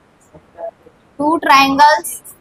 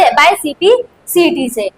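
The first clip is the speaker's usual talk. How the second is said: slow dictation; much slower than usual. Shown as a demonstration. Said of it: "किससे?".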